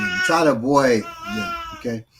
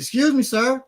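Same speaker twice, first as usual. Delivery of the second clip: cop voice; 10 semitones higher than usual. Retold or imitated. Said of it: "He says".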